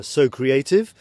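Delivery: "So Creative" said as the English phrase, in a British accent. Shown as a demonstration. Explaining his page's pun to viewers, British accent. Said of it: "avec, euh, mon accent, euh, très English".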